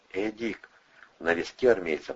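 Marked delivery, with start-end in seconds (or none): 0.1-0.7 soft, gentle call; quietly calling. A narrator's reading. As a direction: call his name softly. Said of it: "тихо позвал".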